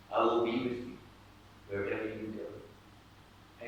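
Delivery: soft, tender, unhurried promise; close, intimate words of comfort; gentle whisper-like reassurance. Acted. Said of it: "that whisper will be like this".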